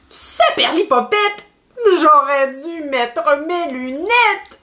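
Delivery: lady talking to herself. Acted. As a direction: scold yourself in a storybook lady's voice. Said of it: "se dit-elle en rangeant".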